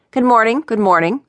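flustered. A narrator's reading. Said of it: "clearly a little flustered".

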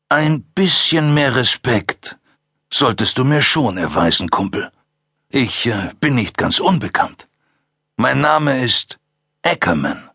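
langsam, herablassend, leicht gespielter Mörder; herablassender Killer. Acted. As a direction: lass ihn genüsslich seinen Namen auskosten. Ackerman stellt sich vor. (Ackerman stellt sich den Cops herablassend vor)

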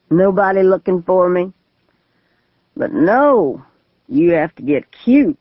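put-on rising, manic drunk rant; unhinged drunk man. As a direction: rave about being over the edge. Gunman explains himself.

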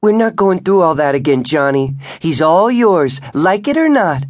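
wife screaming at her husband during the fight; furious shout. A narrator's reading. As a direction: fling it in his face.

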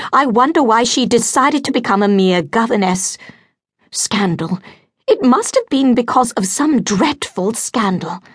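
a flustered mother imagining scandal; fretting gossipy mother. Acted. Lady Beverley frets aloud.

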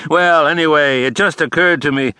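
hearty, upbeat father on the phone. A narrator's reading. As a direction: bounce back into jovial good cheer. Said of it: "he sounded his hearty self again".

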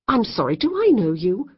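rising, irritated demand; cross demand. A narrator's reading. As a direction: push back crossly. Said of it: "Kate demanded crossly".

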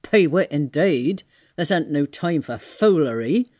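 scornful tramp. Acted. Tramp scoffs at bird.

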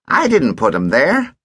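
put-on lazy teasing kid; cheeky boy voice. Ogden denies.

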